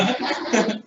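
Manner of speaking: brief amused laugh; short chuckle. Real, not acted. Teacher teasing student about instantly perfect curry, short chuckle. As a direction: chuckle briefly at your own joke.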